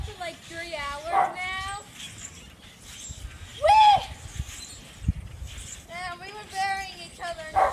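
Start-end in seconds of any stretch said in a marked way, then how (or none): 3.6-4.0 high squeal of delight; gleeful whee. Real, not acted. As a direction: squeal it like sliding down. Sliding down in snow.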